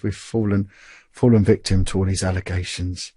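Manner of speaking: lightly imitated Irish bishop; soft Irish accent. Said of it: "in this soft Irish accent".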